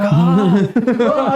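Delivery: half-acted anime power-up yell; mock Super Saiyan yell. Mid-fight, recreating his yell while swinging, mock battle cry. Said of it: "like, a Super Saiyan yell".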